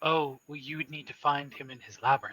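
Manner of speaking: courteous, kindly, pleasant, polite tone. Answering the players' question about the Minotaur, she replies: smiling while speaking. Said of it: "she smiles her ever present smile at you and gives you kind of a bow and says".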